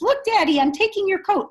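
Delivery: put-on high, loud child showing father; acted defiant announcement. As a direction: proclaim it boldly to Dad. Grandson defiantly shows father.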